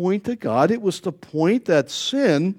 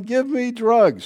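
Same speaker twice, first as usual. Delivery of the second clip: mock yell, high and drawn out; slow, raised-pitch mock cry; retold yell; 4 semitones higher, slower than usual. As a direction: imitate a woman yelling in labor, without much volume. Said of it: "she's yelling".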